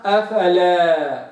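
أفلا with the a stretched long; wrong long alif. Shown as a demonstration. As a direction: show the mistaken أفلا. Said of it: "واحد يقرأها". (أفلا بمد خاطئ)

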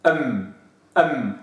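أم with m given its full medium length. Shown as a demonstration. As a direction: hold the m of أم evenly. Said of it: "نعطيها حقه من التوسط".

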